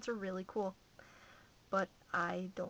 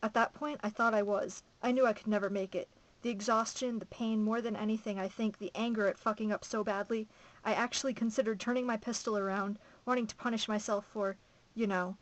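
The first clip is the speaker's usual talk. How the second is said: emphatic first-person novel reading; story narration; 5 dB louder than usual. A narrator's reading. Reader telling a survivor's account from a novel, emphatic narration. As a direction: read the account out with steady drive.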